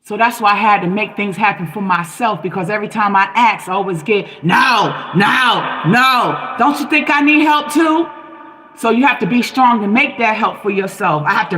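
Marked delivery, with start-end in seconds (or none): 4.4-6.5 emphatic separate no's; mimicked refusals. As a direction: imitate a firm refusal, each word on its own. Voices the refusals she always gets.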